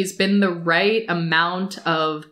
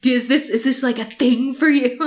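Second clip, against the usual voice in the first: confronting; 4 semitones higher than usual. Retold or imitated. Kitchen confrontation, retold.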